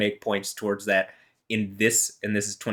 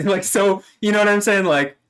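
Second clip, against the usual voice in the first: higher and louder, words broken by laughter; laughing while talking; 11 semitones higher, 7 dB louder than usual. Real, not acted. Laughs while defending herself.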